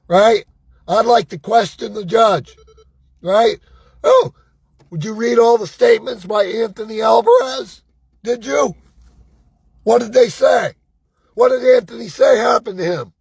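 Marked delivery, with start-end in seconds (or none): 4.0-13.1 mock interrogation. Mock questioning of the judge.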